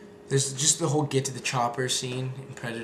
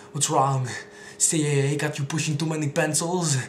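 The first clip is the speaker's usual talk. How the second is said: louder teasing Arnold taunt; Arnold impression; 3 semitones higher, 4 dB louder than usual. Arnold arm-wrestling CIA friend, teasing impression. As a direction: tease like Schwarzenegger. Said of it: "those are my Arnold impressions".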